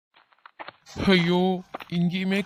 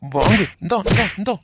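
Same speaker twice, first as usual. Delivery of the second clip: angry fighting shout; 5 dB louder than usual. Acted. Rescuer beating the kidnapper.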